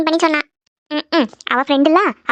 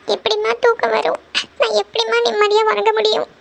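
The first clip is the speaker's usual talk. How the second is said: mildly tearful, higher-pitched reply; 4 semitones higher than usual. Acted. Upset daughter tells her mother she cannot sleep, mildly tearful. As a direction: answer with a touch of crying, pitched up. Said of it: "ஏம்மா இப்படி அழுதுட்டு இருக்க?".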